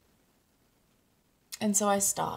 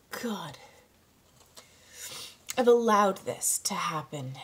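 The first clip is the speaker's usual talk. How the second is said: tearful. Real, not acted. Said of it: "without crying".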